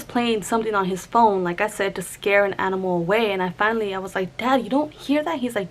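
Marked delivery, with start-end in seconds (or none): 4.4-5.4 a higher, mildly exasperated retold question; retold exasperation. Asking Dad if he really can't hear it, retold exasperation. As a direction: lightly act out disbelief at Dad. Confronting dad about the noise.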